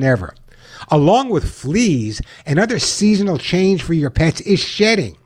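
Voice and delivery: upbeat pitchman ad read; chipper 1950s ad. Acted. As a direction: sell it like an old radio spot. Host reads his own ad.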